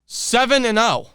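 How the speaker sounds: shaky with adrenaline; trembling after the win; adrenaline shakes. Real, not acted. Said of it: "I can't stop shaking".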